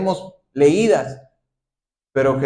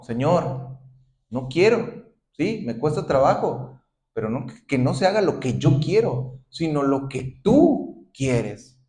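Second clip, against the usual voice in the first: humble surrender. Acted. Humble surrendering prayer acted.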